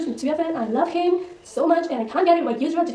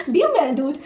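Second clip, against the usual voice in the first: laughing scold; 2 semitones higher, 5 dB louder than usual. Real, not acted.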